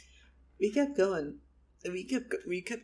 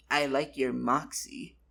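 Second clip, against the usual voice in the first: too seductive; 3 semitones lower than usual. Acted. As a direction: lay the seduction on too thick. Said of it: "that was too seductive".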